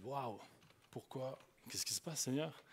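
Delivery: soft, hushed retold questioning; understated re-enacted bewilderment; bewildered prayer. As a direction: ask God quietly, taken aback.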